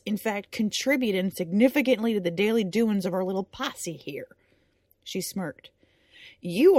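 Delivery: loud scolding drill sergeant. Acted. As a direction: berate him like a sergeant. Din scolding Brick, loud.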